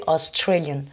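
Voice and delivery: Australian with TRA emphasised; stress on second syllable. Shown as a demonstration. Teacher applying the same rule, stress on TRA in Australian. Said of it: "et même chose pour".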